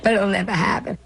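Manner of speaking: rueful laugh; wry half-laugh, half-cry; laughing through tears. Real, not acted. Laughs then cries.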